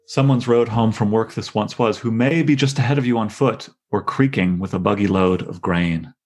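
measured poetry recitation; reading a poem aloud to the class. Acted. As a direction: read the lines with care, letting them land. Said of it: "reading the poem".

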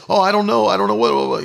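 lightly acted dithering worry; mock freak-out. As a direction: imitate someone starting to panic. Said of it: "you know, freak out".

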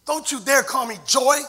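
quiet warning. Retold or imitated. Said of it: "she makes the following comment".

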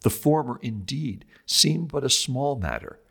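put-on measured, solemn reading of an old sermon. Host reads Augustine's Holy Week lecture to listeners, solemn and measured. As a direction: read it like a lecture from the pulpit.

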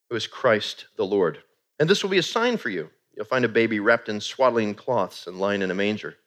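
slow, solemn scripture reading. Acted. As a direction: read it with reverent weight.

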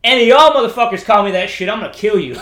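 loud, high-pitched warning; imitated furious shout, played for a laugh; retold angry threat. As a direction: threaten them like a big enraged sailor. Big sailor's threat, retold.

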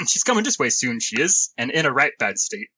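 rough put-on English smallfolk accent; attempted English accent. Game master warns the party as Uncas, rough English accent. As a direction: persist with a shaky English accent. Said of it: "continue trying to do the accent".

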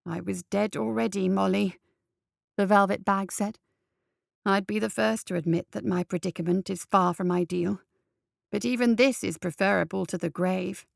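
lightly voiced measured gentleman; a hint of a composed voice from a bag; calm old head.

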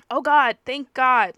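loud, drawn-out relief, mildly acted; agitated, upset. A narrator's reading. Friend hearing Lucy is fine, agitated relief. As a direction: exclaim it slowly with a rush of feeling. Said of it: "Louise became agitated and upset".

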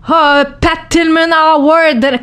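high, drawn-out mock admiration; mock awe. Athlete mimicking everyone putting her on a pedestal, mock awe. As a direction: gush the award's name slowly, mimicking admirers. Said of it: "tout le monde, là, me met sur un piédestal".

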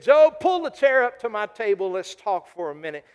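a hint of God's booming challenge, swelling on where were you; God challenging Job, loud peaks on where were you; lightly voiced God. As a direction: question Job like a master of creation. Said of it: "He said".

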